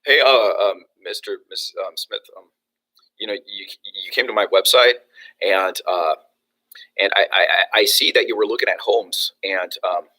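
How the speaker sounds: low, halting, unsure phone greeting; hesitant agent fumbling through the call; unconfident sales call. Shown as a demonstration. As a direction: stumble and trail off timidly. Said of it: "Are you confident?".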